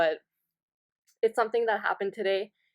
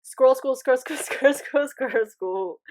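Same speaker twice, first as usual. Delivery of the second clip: rushed, louder, stumbling repeats; fast tongue twister, tripping and laughing; ten times fast; 4 semitones higher, 4 dB louder than usual. Shown as a demonstration. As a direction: race through it until it falls apart. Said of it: "okay, here, I'll try".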